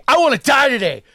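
road-rage driver yelling at him; imitating crazed yelling. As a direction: rave like a man ready to die. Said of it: "what scared me was".

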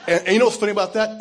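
laughing as he tells the funny part; laughing loudly. Real, not acted. Laughing aside to congregation.

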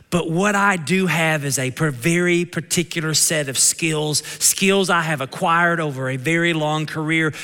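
a hint of a cold kidnapper call in a Kentucky twang; Liam Neeson in twang. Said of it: "So in my Kentucky twang, Imagine Liam Neeson".

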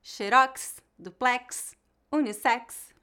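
"xerox, duplex, unissex" as careful examples, leaning on each ending; final-syllable stress. Shown as a demonstration. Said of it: "têm a tônica na última sílaba".

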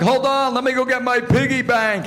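put-on high-pitched childlike simpleton; goofy, eager prank-call voice; idiot character voice. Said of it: "how I came up with that character".

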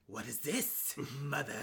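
low, quiet villain son; son's voice. Acted. Son questioning his mother, low put-on voice. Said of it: "he's like".

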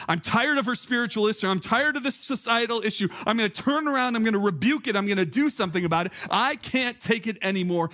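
fed up. Retold or imitated. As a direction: act out finally losing patience. Acts out Paul finally fed up.

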